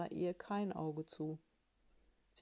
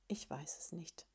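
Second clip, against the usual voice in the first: sleepy whisper; 2 semitones lower, 7 dB quieter than usual. Acted. Schläfriger Ehemann antwortet nachts.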